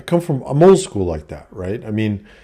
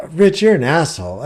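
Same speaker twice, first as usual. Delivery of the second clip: put-on higher voice as the angry girlfriend; a hammed-up angry girlfriend, higher; mock girlfriend insult; 7 semitones higher, 4 dB louder than usual. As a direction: imitate her snapping at him.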